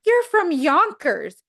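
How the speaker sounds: loud, high mock yell with laughter in it; imitated scream. Monica yelling at a friend's voicemail, mock screaming. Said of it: "Monica, like, screams at the".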